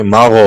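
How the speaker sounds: مغ with a hard bounced gh; harsh wrong gh. Shown as a demonstration. Teacher showing the wrong reading, hard bounced gh. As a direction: clip the gh in مغ hard. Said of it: "یہ نہیں کریں گے، غلط ہو جائے گا".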